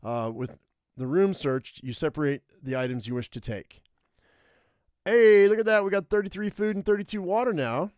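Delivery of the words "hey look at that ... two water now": excited. Real, not acted. Finds lots of food and water.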